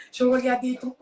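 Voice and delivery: French with a put-on English accent; lightly imitated English accent in French. Leslie flatters the caller in French, English accent. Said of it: "l'accent anglais, ouais, il fait un peu l'accent anglais".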